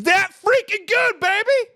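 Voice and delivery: excited. Real, not acted. Streamer hyping his point to chat, high excited baby. Hyped sign-off to a strong point.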